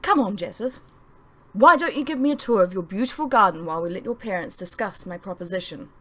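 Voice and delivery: faux innocent. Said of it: "faux innocent tone".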